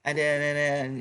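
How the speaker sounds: slow, sorry-for-himself mock excuses; put-on pitiful fighter, drawn out. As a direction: imitate a beaten fighter dragging out his excuses. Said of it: "it sounded pitiful".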